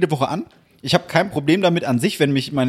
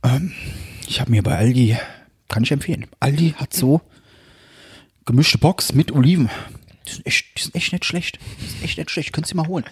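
halting Hessian dad recommending food; imitated Hessian; 3 semitones lower than usual. Father praising Aldi olives to his son, imitated halting Hessian. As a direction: do Dad in Hessian, pausing between phrases. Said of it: "wie du andere Personen auf Hessisch nachmachst".

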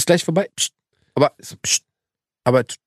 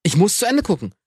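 higher pitch throughout; mimicking stubborn wife, pitched up; acted exchange with wife; 3 semitones higher than usual. Husband replays wife refusing, pitched up.

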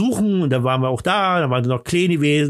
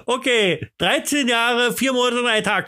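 auctioneer; 7 semitones higher than usual. Acted. Repeats figure like an auction.

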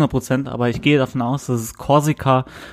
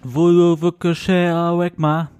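mock French; 4 semitones higher, slower than usual. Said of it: "das war richtig gut".

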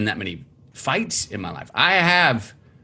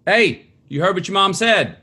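raised voice, higher, not angry; attention getter; 6 semitones higher than usual. Shown as a demonstration. Father demonstrating how he gets his kids' attention, raised non-angry call. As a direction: call the kids to attention, no anger. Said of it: "I'm gonna do it for an attention getter".

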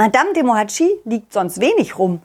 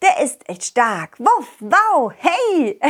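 silly clown. Acted. Children's song intro, dog.

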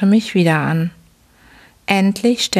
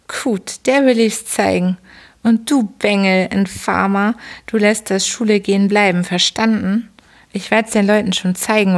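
a lightly raised, mocking drunken father voice; gruff old father; 2 semitones higher than usual. Father berates son.

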